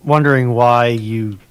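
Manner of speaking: normal talking voice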